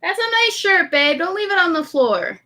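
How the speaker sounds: sweet high sing-song to a little one; high cooing parental voice. Real, not acted. Parent talking to child off mic.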